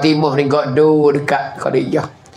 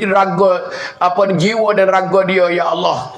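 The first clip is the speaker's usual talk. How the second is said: lightly voiced grieving prayer, higher at the peaks; 4 semitones higher than usual. The Prophet praying for his dead wife, mild grieving plea. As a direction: plead to God in sorrow. Prophet prays after Khadijah dies.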